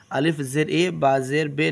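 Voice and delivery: बे said with an e vowel, not ee; the village reading of बा ज़ेर बे; wrong e sound on ज़ेर; majhul vowel. Shown as a demonstration. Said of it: "मजहूल आवाज़ से बचा जाए".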